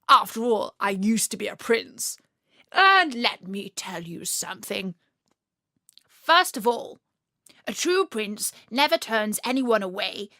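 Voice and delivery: lightly voiced earnest frog prince; rally the pond creatures; frog prince speech. Frog Bertie lightly voiced addressing the pond meeting.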